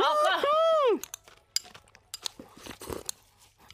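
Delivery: slow pained exhale through the cold; brain freeze. Real, not acted. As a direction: wince through an ice-cream headache. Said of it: "痛い。".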